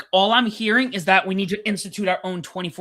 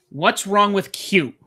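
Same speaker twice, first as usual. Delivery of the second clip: playful quote; 5 semitones higher, 6 dB louder, slower than usual. Retold or imitated. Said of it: "Punk said, looking directly in the cam".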